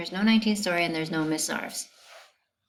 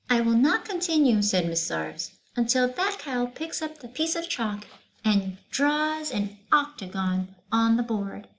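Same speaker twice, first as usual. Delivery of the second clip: stern teacher; 5 semitones higher than usual. Acted. Teacher refusing to continue class, stern. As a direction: lay down the law to the class.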